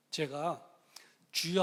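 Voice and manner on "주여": crying out Lord. Shown as a demonstration. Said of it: "한번 부르고 통성으로 기도합니다".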